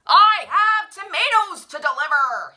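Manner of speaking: loud, angry holler; shouting truck driver. A narrator's reading. Truck driver shouting at taxi, loud angry yell. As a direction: yell it over the traffic. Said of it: "he shouted".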